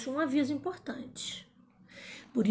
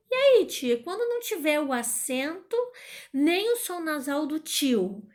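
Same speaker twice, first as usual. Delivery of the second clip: lightly voiced pupil, higher-pitched question; pupil asking the teacher; 4 semitones higher than usual. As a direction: raise the pitch like a curious pupil. (aluno perguntando à tia, voz mais aguda)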